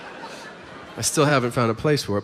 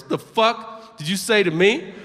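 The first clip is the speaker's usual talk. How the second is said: slow, higher mock-menacing question; affronted challenge; 4 semitones higher, slower than usual. Pac-Man confronts the fan, slow affronted challenge. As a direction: imitate an offended player, drawn out.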